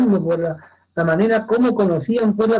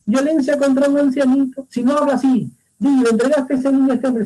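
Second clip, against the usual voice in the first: higher commanding orders; angry king; 6 semitones higher than usual. Acted. Oedipus orders the silent shepherd beaten, angry and higher. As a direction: order the old man whipped. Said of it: "Entonces Edipo molesto dice".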